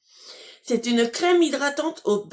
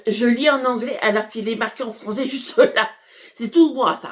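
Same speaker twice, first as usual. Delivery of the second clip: laughing at herself, a bit louder; 4 dB louder than usual. Real, not acted. Vlogger laughing because she read English instead of French. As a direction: giggle at your own blunder. Laughs at her own mistake.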